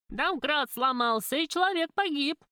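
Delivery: put-on old woman in the crowd crying out, alarmed; old woman shouting. A narrator's reading. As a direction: call out the news to the crowd. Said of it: "кричала какая-то бабулька".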